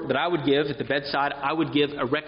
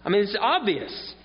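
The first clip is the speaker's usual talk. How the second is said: 1 incredulous Paul; 5 semitones higher than usual. Pretend. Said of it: "think about Paul and say".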